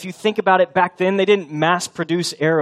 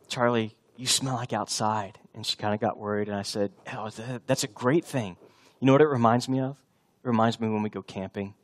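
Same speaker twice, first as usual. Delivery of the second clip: hushed bedtime tenderness; 4 semitones lower, 7 dB quieter than usual. Retold or imitated. Tender bedtime words to daughter.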